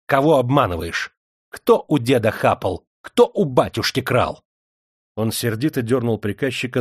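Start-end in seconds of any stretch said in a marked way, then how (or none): 0.1-4.4 loud, hammering questions; heated interrogation; angry accusation. Acted. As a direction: fire off the accusations forcefully. Angry master accusing the steward.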